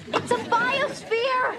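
exasperated, loud and slow; frustrated shout. Acted. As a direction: snap back, exasperated. Insisting, frustrated outburst.

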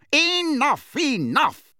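high, loud cut-off; exasperated official calling a halt; impatient interruption. Acted. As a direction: silence the witness sharply. Fudge cuts off Harry's testimony.

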